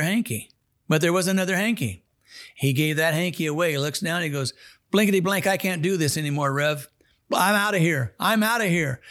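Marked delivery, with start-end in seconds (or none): 4.9-8.1 freaked out. Retold or imitated. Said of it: "got freaked out and ran". 8.2-9.0 freaked out. Retold or imitated. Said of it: "got freaked out and ran".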